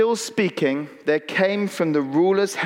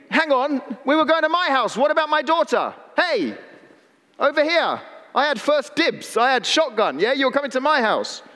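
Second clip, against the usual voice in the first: a mildly voiced impatient father protesting; impatient Jairus; 5 semitones higher than usual. Pastor voices Jairus protesting his place in line. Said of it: "Jairus is thinking".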